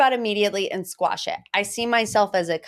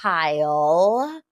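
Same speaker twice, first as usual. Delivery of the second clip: passive aggressive; much slower than usual. Pretend. Host practicing the greeting for David, passive aggressive. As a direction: greet with fake sweetness. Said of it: "whenever I'm feeling passive aggressive".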